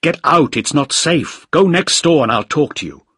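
high, loud, urgent warning; shouted emergency order. A narrator's reading. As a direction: drive them out of danger. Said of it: "I shouted".

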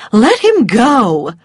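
loud and slow; firm command. A narrator's reading. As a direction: stop her firmly. Mrs Elsing, firm.

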